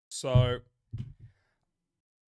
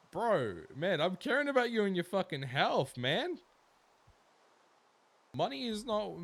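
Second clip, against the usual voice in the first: higher and louder, fed-up caring rant; exasperated scolding; 8 semitones higher, 6 dB louder than usual. Real, not acted. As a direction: tell him off because you care. Scolding friend about health.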